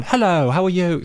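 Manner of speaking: high-pitched posh British greeting; posh British accent. Shown as a demonstration. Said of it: "there's, like, a more posh one".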